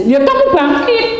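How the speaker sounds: high, drawn-out command; acted urging. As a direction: urge them up, stretching the words. (seruan menyuruh bangkit, nada tinggi)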